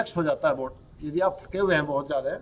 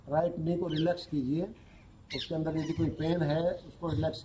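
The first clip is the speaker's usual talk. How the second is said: unhurried yoga nidra instruction, softer than normal talk; guided relaxation; 7 dB quieter than usual. Real, not acted. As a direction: guide them gently through relaxing each body part, with long pauses. (योग निद्रा का शांत निर्देश)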